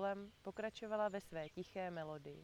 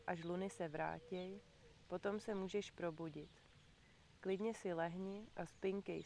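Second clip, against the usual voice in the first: lullaby reading. Acted. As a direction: lull the listener toward sleep.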